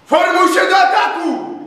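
rally the men for the charge; shouted command. A narrator's reading. Captain calling his men to attack, loud shout. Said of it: "zawołał".

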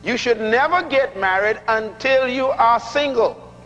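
slow, deliberate repeat for emphasis. Shown as a demonstration. Preacher repeating his key point to the congregation, very slowly. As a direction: spell the point out slowly, word by word. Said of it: "I'm gonna say it very slowly".

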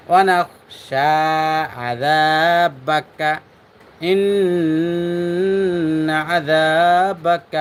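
slow, drawn-out chanted Arabic prayer; measured tajweed recitation, every vowel stretched; Quran-style recitation. Shown as a demonstration. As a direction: recite the qunut slowly and melodically.

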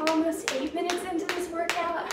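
talking while jumping; puffing out words mid-jump; doing jumping jacks. Real, not acted. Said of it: "I can't talk and jump at the same time".

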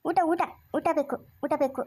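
a light imitation of a hungry man asking; imitating a pleading man. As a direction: drag out the plea like him, lightly. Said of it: "ತಾತ ಯಾವಾಗ್ಲೂ ಹಿಂಗೆ ಕೇಳ್ತಾನೆ".

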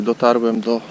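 ordinary talk

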